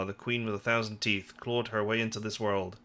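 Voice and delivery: usual speaking voice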